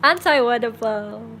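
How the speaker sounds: lightly hammed-up greedy mob boss; greedy mafia boss. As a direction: play at a gloating boss, drawing out words.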